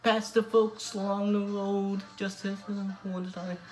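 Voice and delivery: sung in an attempted Newcastle Geordie accent. Vlogger covering Blaydon Races for his viewers, sung in a Geordie accent. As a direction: sing the folk song with a Geordie lilt, doing your best. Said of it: "I'll be trying this one in a Newcastle Geordie accent".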